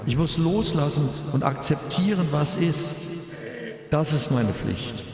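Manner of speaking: grieving father's eulogy, composed; at a graveside. Real, not acted. Eulogy for son at funeral.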